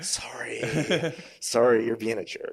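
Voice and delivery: put-on polite Canadian accent, whispered then firmer; apologetic Canadian accent, jokingly. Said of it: "My, my, my most Canadian voice".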